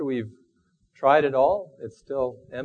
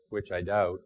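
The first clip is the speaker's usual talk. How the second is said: gloomy Eeyore; 5 semitones lower than usual. Retold or imitated. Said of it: "said Eeyore gloomily".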